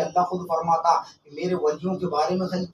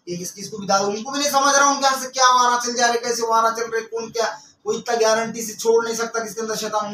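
scolding sermon with raised voice; heated preaching; 4 semitones higher, 4 dB louder than usual. Real, not acted. Preacher denouncing sorcerers who ruin people's lives, heated. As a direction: berate the sorcerers from the pulpit.

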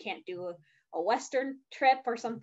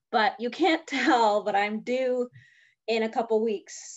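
slightly breathless, pregnant speaker; out of breath; 4 dB louder than usual. Real, not acted. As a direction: talk a little short of air. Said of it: "that's why I'm out of breath".

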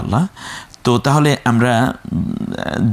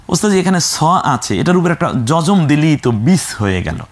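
higher, quick eager pupil answering; student's answer; 4 semitones higher, faster than usual. Pretend. Teacher plays a pupil replying, quick and high. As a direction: answer brightly like a keen student.

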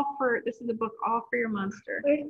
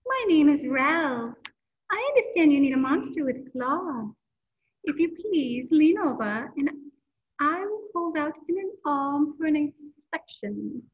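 higher, silky, polite monster; 4 semitones higher, 4 dB louder than usual. Acted. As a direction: speak like a fussy, elegant monster. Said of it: "in a high, silky voice".

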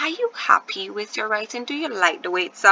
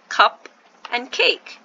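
cup and cake each given its own beat; separate syllables; 3 semitones higher, 4 dB louder, slower than usual. Shown as a demonstration. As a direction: stress both cup and cake. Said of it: "two syllable word".

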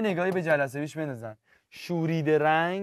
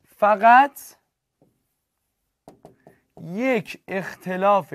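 each phrase slowed and pressed, with long pauses; slow, louder teacher emphasis; 5 dB louder, much slower than usual. Shown as a demonstration. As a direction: spell out the key point word by word, louder. Teacher stresses a key definition.

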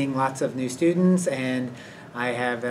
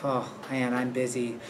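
quiet aside to oneself; thinking to himself; 8 dB quieter than usual. Retold or imitated. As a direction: imitate a private thought, said softly. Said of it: "he thinks to himself".

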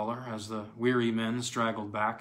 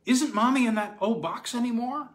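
put-on high, louder little boy's voice; bright child; 12 semitones higher, 6 dB louder than usual. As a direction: ask it brightly, innocent. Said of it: "asked Harry Todd brightly".

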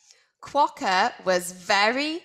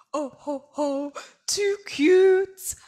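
howling Dingo; 6 semitones higher than usual. A narrator's reading. Dingo teasing Quokka, high howled laugh. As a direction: howl it like a wild dog. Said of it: "howled Dingo".

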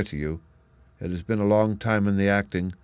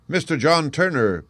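hotel waiter calling a visitor's name through the door; cried out; 7 semitones higher, 4 dB louder than usual. Acted. Waiter announcing a guest, called out loud and high. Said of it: "cried the hotel waiter".

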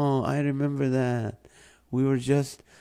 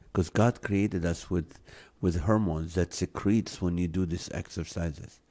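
warm and persuasive; 6 dB quieter than usual. Real, not acted. Urging viewers to exercise.

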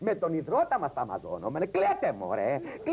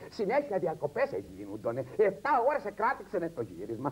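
usual speaking voice

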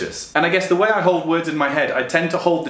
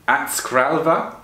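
slow, uncertain stab at Swedish; awful Swedish accent; much slower than usual. Shown as a demonstration. Apologising for clumsy Swedish pronunciation, awful Swedish accent. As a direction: attempt "skralva" in a bad Swedish accent. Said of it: "that is awful accent".

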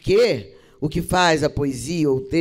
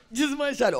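high, tearful attempt at the verse; mock choked-up recitation; breaking into tears; 7 semitones higher than usual. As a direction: imitate a student starting to cry. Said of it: "Chorou umas duas horas".

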